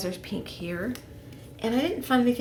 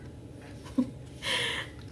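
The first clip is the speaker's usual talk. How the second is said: soft breathy laugh under the breath; whispered laugh; 7 dB quieter than usual. Real, not acted. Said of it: "so I have to whisper".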